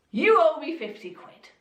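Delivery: angry demand. Acted. Servant demands his fifty quid from his fellow servant, angrily. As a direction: lean in and demand it hard. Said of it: "And the servant was angry".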